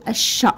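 الش as "ash-sha", no L; silent lam. Shown as a demonstration. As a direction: double the sh in الش and drop the L. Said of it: "راه ما كتنطقش".

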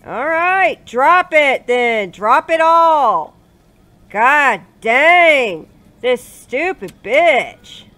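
loud, high and slow, furious; angry shouting. Real, not acted. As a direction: order her to drop it, yelling. Arguing with game character.

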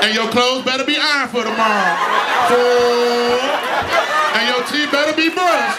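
a hint of an angry mother counting down; mama's gangster countdown. Mother counting down at kids to bed, mock angry. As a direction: bark the numbers like a mama losing patience. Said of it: "your mama do the gangster countdown".

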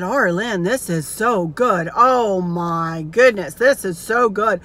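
slow, drawn-out mock raving; raving with delight. Dad raves over banana pudding, retold as slow, emphatic delight. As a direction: savour every word, imitating an amazed eater. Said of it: "He went nuts over that".

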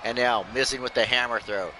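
lively ringside commentary, calling every move; wrestling play-by-play. Acted. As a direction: call the match like a hyped announcer.

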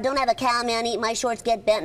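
lightly voiced cheeky cartoon boy; a hint of a bratty kid rattling off lines; understated Bart voice, near own voice; Bart Simpson catchphrases. Shown as a demonstration. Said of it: "he sounds like that".

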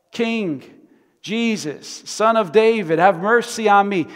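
loud, high preaching cry; rising shout. Acted. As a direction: proclaim it with force.

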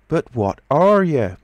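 high, loud, stretched-out question; exasperated demand. A narrator's reading. Tramp demands what the unseen voice is, loudly baffled. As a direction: cry out in bafflement.

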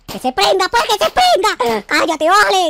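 high, loud, rowdy yelling; loud brawl shouting. Acted. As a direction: yell to start the fight. Brawl erupts.

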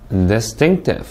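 "Distinctive" as a model, dis-TINC-tive; careful word stress. Shown as a demonstration. Teacher shows students "Distinctive", careful word stress. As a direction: stress the middle syllable of "Distinctive". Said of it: "이렇게 강세를 넣어서 읽을 수".

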